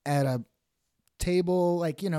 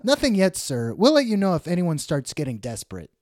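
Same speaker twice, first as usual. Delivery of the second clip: mild official politeness; a hint of a comic clerk; lightly voiced matchmaker; 4 semitones higher, 3 dB louder than usual. Matchmaker updates Ziggy on his prospects, lightly acted. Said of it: "He's at a matchmaking company".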